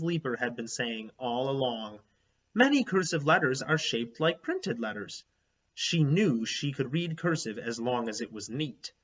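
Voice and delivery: put-on steady read-aloud narration for children; story narration. A narrator's reading. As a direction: read the chapter to the class. Reads chapter book aloud to class.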